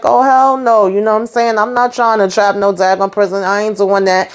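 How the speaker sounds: flatly refuse, offended; indignant refusal. Retold or imitated. Sharon refusing the setup.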